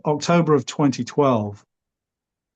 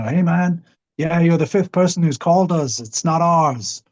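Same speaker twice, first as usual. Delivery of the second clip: Hispanic guy on the phone; 6 semitones higher than usual. Retold or imitated. Air force base guy hanging up on caller, lightly imitated higher. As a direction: loosely imitate the base guy brushing him off, pitched up. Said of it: "Hispanic fella".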